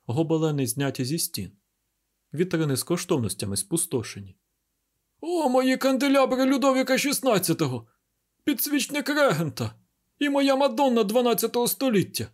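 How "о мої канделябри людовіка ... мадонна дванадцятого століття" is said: put-on much higher, louder wailing old baron; despairing baron. Baron mourns his stolen candelabra and Madonna, wailing high. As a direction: wail over each lost treasure. Robbed baron laments treasures.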